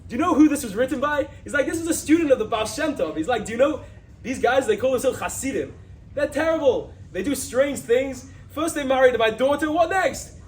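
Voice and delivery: outraged shouting at the Hasidim; furious father. Retold or imitated. Father enraged about his son-in-law's book, shouting high and loud. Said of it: "He goes angry".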